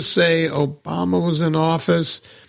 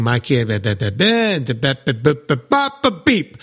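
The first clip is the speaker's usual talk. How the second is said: mocking parents.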